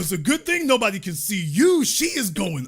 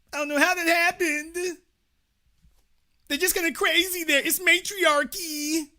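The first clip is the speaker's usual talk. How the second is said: mock heartbroken whining; 4 semitones higher than usual. Mocking the jilted guy's lament.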